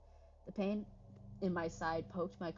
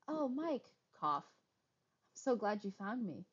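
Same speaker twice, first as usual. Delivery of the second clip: strange Sarah voice; 5 semitones higher, slower than usual. Acted. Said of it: "something weird about the way she sounded".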